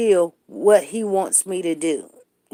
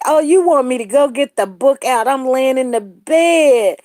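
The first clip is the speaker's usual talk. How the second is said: calling back; 3 semitones higher, 7 dB louder than usual. Real, not acted. Answering from bed, calling back.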